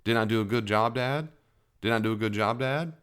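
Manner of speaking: put-on child asking. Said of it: "My children do that".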